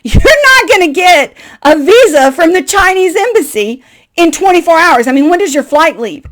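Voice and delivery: high, loud, laughing scoff; incredulous host laughing at the guest; laughing disbelief. Retold or imitated. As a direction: laugh at the naive plan. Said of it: "he started cracking up laughing".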